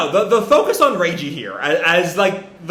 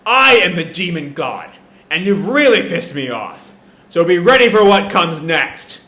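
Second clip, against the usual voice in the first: a hint of a menacing demon god, louder; lightly voiced Satan; 5 dB louder than usual. Satan warning the humans, mildly menacing and rising. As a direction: threaten them, building. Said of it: "Satan goes on".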